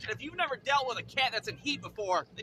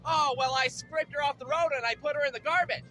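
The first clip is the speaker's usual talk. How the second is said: lightly put-on higher lady voice; neighbor lady; 4 semitones higher, 4 dB louder than usual. Neighbor describing the accident, lightly voiced lady. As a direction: report it as the neighbor, voice lifted. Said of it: "the neighbor lady comes up to me".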